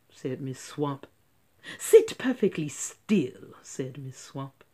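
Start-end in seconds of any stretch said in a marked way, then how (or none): 1.8-3.5 loud, hushed strict order; stern command. Acted. Strict teacher demanding silence. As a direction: order it coldly.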